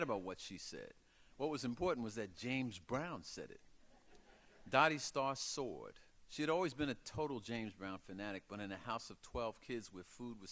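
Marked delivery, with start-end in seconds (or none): none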